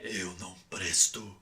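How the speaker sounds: a menacing space villain speaking slowly; low slow dark-lord growl accusing you; Darth Vader voice. Pretend. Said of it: "como a voz do Darth Vader".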